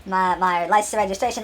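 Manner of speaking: hesitant excuse with stammers and uhs; nervous. Acted. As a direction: play someone sheepishly stalling the guards. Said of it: "I'm nervously, like, I'm nervously sweating".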